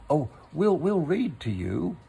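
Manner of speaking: bright, bouncy reassurance; cheerful. Acted. Rabbit promises the stuck Pooh, mildly cheerful. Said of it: "said Rabbit cheerfully".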